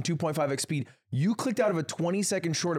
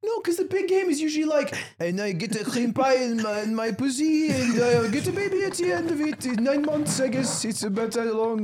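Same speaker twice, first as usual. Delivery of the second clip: higher, hammed-up mock French accent; 6 semitones higher than usual. Practicing for the big game, hammed-up French accent. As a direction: put on a comic French accent, pitched up. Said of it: "to make your accent better".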